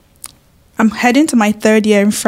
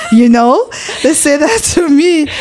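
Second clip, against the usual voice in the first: laughing; 6 semitones higher than usual. Real, not acted. Laughing after friends' quote.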